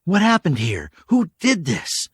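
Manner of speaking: high, loud, slowing demand; insistent. Acted. K J threatening the stranger, insistent. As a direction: demand it with rebar at his throat. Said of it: "she asked again".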